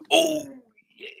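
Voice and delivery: high, breathy oh of surprise; surprised oh. Real, not acted. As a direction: gasp into the word. Sudden realisation.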